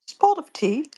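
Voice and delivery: mock British accent, copying another caller; copied British accent. Listener teasing a fake Scotsman, copied British accent. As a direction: chime in with an imitated British accent. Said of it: "I'm up here copying off of his accent".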